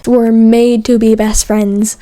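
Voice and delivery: slow, insistent, like arguing a case; defending a point. Real, not acted. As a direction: press the point home slowly. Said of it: "like I'm defending a point".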